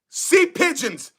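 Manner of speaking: drawn-out teasing nickname; slow mocking taunt. Real, not acted. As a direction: savour the insult slowly. Taunting rival fans with nicknames.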